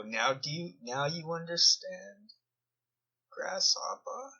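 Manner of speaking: a mock German monk teaching his pupil, German accent. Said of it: "Tried to do a little German accent there".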